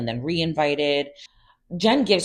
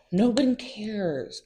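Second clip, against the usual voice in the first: slow emphatic dismissal; 6 semitones higher, 4 dB quieter, much slower than usual. Real, not acted. Dismissing Bravo storyline.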